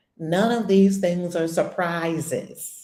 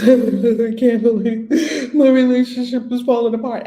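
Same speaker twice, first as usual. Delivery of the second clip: slow, louder, laughing mock lament; mock sadness; 4 semitones higher, 8 dB louder than usual. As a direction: ham up the self-pity while chuckling. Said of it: "from anger to sadness".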